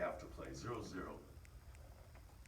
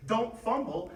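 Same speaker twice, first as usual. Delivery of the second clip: sharp warning shout; the wrong thing to yell; negative coaching; 14 dB louder, slower than usual. Shown as a demonstration. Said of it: "You don't say".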